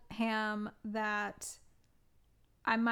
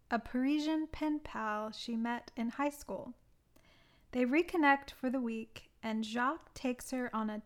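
measured, deliberate film-blurb read; summary read-out. Acted. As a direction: read out a prepared plot summary, phrase by phrase. Reads out own plot summary.

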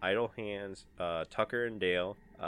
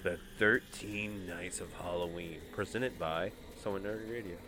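announcer voice. Acted. Show title announcement.

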